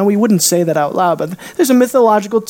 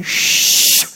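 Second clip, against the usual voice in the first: hush. Retold or imitated. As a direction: hush the storm gently. Jesus hushing wind and waves.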